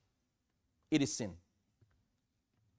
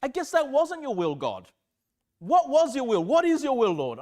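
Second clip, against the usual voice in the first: exasperated questioning of God, pitched up; raised, insistent mock exasperation; frustrated; 4 semitones higher, 3 dB louder than usual. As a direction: act out pleading for an answer. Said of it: "I'm getting frustrated".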